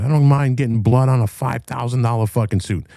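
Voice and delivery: high-pitched retold angry yell; retold screaming. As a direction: re-enact yelling a threat. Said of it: "I started screaming at him".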